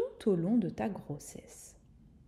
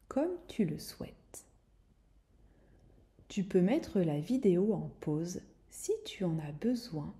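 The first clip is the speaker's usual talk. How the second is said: right in your ear; 3 dB quieter than usual. Acted. Close whispered relaxation guidance.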